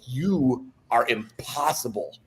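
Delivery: exasperated, laughing it off; laughing scold. Retold or imitated. Melinda laughs at his prank.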